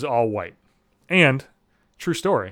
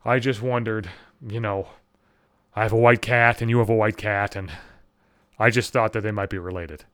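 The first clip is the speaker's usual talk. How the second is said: lightly voiced lower, earnest neighbor; understated imitation of a hesitant neighbor; neighbor woman; 4 semitones lower than usual. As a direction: explain it sheepishly, pitched down. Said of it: "And she's like".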